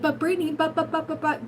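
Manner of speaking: whiny mock protest. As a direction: mimic a viewer's whiny objections.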